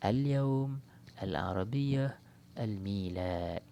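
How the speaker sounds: "Al-Yawm, Al-Arabiyah, Al-Milad" with each L pronounced distinctly; clearly sounded lam. Shown as a demonstration. Teacher giving qamariyah examples, every L of "Al" clearly sounded. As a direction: sound the L in every "Al", drawing out the words. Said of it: "kita sebut lam tu dengan jelas".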